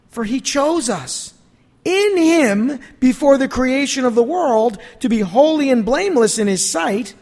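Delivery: emphatic, measured pulpit reading; exuberant scripture reading. Real, not acted. Preacher reading Paul's praise to the congregation, exuberant scripture reading. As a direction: proclaim the praise, leaning on key words.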